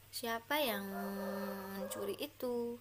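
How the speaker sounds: tune falling at the end on itu; falling question. Shown as a demonstration. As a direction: let the voice drop down on the final itu. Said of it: "Nah, turun".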